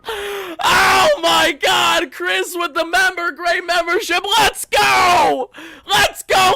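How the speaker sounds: high, hyped-up yelling; elated shouting. Real, not acted. Streamer celebrating with the viewers, elated shouting. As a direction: shout it with overjoyed energy. Celebrating while thanking a member.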